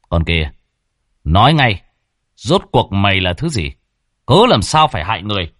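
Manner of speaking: hard, commanding questioning; stern interrogator. Acted. Young man confronting an evil ghost, stern. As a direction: demand answers, punching the order.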